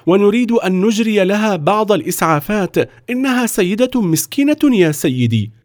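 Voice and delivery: high, imploring plea; humble villager pleading. Acted. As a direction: beg the guard to pity her. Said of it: "وتوسل إليه أحد الرجال".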